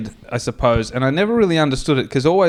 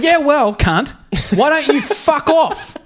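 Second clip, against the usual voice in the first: higher, louder sneering comeback; mock angry retort; 11 semitones higher, 3 dB louder, slower than usual. Telling off the woman driver, hammed-up angry. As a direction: fire it back at her, pitched up. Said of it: "And I said".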